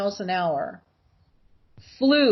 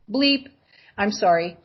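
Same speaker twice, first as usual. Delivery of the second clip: normal talking voice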